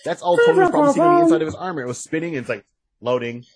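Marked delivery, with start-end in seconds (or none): 0.0-1.8 excited. Real, not acted. Excited fast aside.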